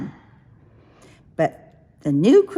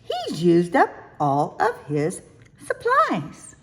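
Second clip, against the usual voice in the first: dismayed surprise. Acted. Crane truck runs out.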